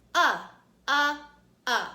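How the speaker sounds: UH said loud as short U in up; short U sound. Shown as a demonstration. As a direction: punch out UH like the start of up. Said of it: "Do it with me".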